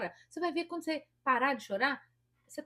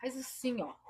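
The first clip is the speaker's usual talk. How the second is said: whispered demo; 4 dB quieter than usual. Shown as a demonstration. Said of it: "Os artistas faz".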